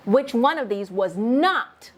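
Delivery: slow, leaning hard on not at the end; stress on NOT. Shown as a demonstration. Teacher explaining a negative question to students, stressing not. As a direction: draw the question out and land on not. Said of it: "I'm asking a negative".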